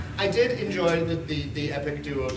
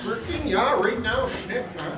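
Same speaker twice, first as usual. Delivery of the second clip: put-on Alberta drunk accent; 5 semitones higher than usual. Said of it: "That's how they talk".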